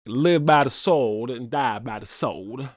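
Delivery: a hint of a Southern drawl, easy and unhurried; Daniel Craig Southern accent. Fan repeating the Knives Out line, lightly voiced Southern accent. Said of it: "I talk in a Southern accent".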